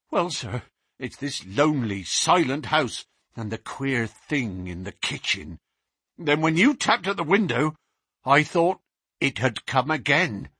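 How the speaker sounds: lightly voiced uneasy policeman; a jumpy constable telling what scared him; nervous constable. Constable Walters explaining to Baines, lightly nervous.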